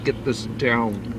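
talking through sticky caramel; chewing sticky toffee. Real, not acted. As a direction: mouth full of caramel. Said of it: "struggling from this caramel".

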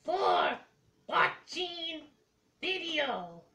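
slow, soft creature voice; dragon voice. Acted. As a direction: slowly croon it like a creature. Puppet signs off slowly.

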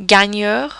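"gagneur" with GN as in lasagna; silent G. Shown as a demonstration. Teacher shows learners G N, "gagneur" with a ny sound. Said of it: "a bit like the sound in lasagna".

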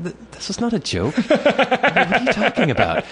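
hammed-up outrage at a bad joke; incredulous. Acted indignant reply to strangers.

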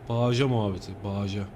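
"Bağışa" said as baaja, g swallowed; no g at all in "Bağışa", just baaja; swallowed-letter dialect. Shown as a demonstration. Driver showing how some swallow letters, "Bağışa" as baaja. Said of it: "Bazı harfleri yutarlar ya".

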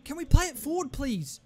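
high, loud plea rising to a wail; real desperate frustration; exasperated pleading. Real, not acted. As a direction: beg your team, voice climbing very high. Pleading with teammates late in game.

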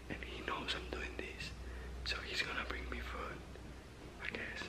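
hushed whisper in the dark; whispering while hiding. Real, not acted. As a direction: keep it an unvoiced whisper. Hiding, friend sleeping nearby.

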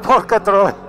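loud startled swearing; explosive Italian cursing. Real, not acted. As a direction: blurt the curse out loud. Exclaiming on a wild ride. (imprecazione esplosiva)

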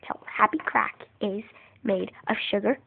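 soft whispered explanation. Real, not acted. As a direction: whisper it like a secret. Whispered recipe.

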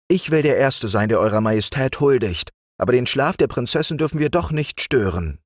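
bow and speak humbly; the loyal green frog paying homage; humble green frog. Acted. Green frog bows, answers.

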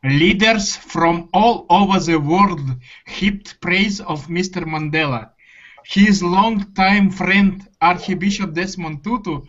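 reading aloud in a heavy Russian accent. Shown as a demonstration. Student reading news text to teacher for fun, Russian accent. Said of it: "I will read it with Russian, very Russian accent".

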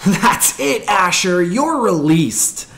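loud jeering yell; shouting. A narrator's reading. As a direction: shout it at a clumsy friend. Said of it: "had shouted at his best friend".

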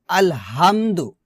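আলহামদু with a plain, unpressed h; আলহামদু, loose h and dipping pitch; mistaken soft ha. Shown as a demonstration. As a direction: demonstrate the error, আলহামদু with an everyday h. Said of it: "আলহামদু বলা যাবে না".

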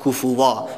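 کفوا ending in a long a, not an; pause form. Shown as a demonstration. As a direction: stop on کفوا with a drawn a. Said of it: "دو زبر وقتی که وقف شه".

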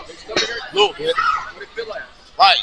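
strained, half-laughing through the burn; mouth burning from spicy food. Real, not acted. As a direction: push words out past a burning mouth. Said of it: "it's hot".

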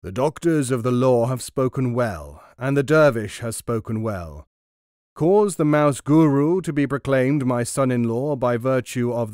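royal proclamation. Acted. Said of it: "and he announced".

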